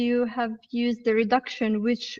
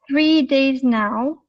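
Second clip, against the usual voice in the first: slow careful reading; slower than usual. Shown as a demonstration. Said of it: "I try to use first the normal reading".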